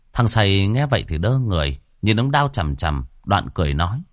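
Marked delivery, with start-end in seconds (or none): none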